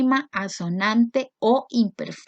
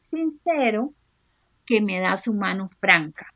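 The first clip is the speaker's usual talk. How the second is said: reading a verse with a lilt, echoing each last word; poem recital. Acted. Teacher reading a poem stanza to students. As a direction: recite the stanza, repeating each line end.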